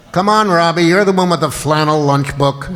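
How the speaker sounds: loud, nasty, mean, aggressive needling tone. Retelling a bit they repeated to someone for years, in a mock-aggressive, mean voice. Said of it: "in a kind of aggressive, mean way".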